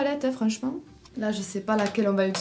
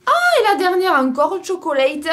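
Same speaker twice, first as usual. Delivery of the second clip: excitée et rieuse; 8 semitones higher, 5 dB louder than usual. Real, not acted. Dernière palette, amusée.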